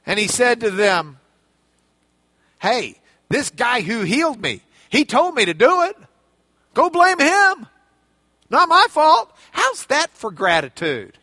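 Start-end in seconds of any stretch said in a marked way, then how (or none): 2.6-9.3 defensive blame-shifting. Retold or imitated. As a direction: protest loudly it's not his fault. Healed man shifts blame.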